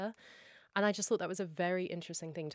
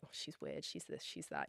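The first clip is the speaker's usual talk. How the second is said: catty gossip; 8 dB quieter than usual. Retold or imitated. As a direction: sneer it like office gossip. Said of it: "nasty gossiping behaviour".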